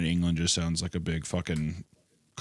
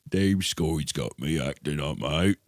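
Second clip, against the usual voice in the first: slow put-on Scottish complaint; mock Scottish accent; 3 semitones lower, slower than usual. Grumbling about them skirts, slow mock Scottish accent. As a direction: drag it out as a comic Scot.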